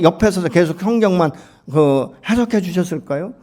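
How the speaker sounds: full-force preaching. Acted. Pastor preaching to the congregation, at full force. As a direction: preach it out to the whole hall.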